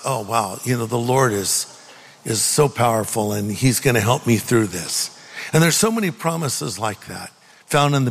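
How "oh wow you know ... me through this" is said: low, settled and reassured; calmly reassuring yourself, pitched low; calm realization. Acted. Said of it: "immediately brings calm to my heart".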